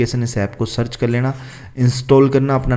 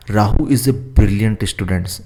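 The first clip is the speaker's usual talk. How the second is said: very slow, word by word for copying; slow dictation; much slower than usual. Shown as a demonstration. Teacher dictating the question to students, slow and careful. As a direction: read it out slowly so students can write. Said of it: "तो ये आपको लिखना है".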